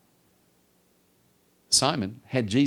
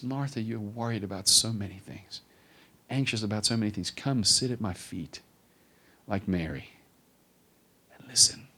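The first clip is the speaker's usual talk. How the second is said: gentle Jesus; 4 dB quieter than usual. Acted. Jesus gently voiced in story.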